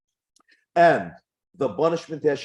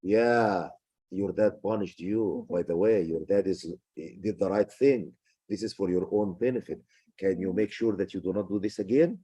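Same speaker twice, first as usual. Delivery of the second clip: lower, softer calm mother explaining; a steady, reassuring mom backing the dad, voiced lower; smart mom; 4 semitones lower, 3 dB quieter than usual. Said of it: "the mom will come and say".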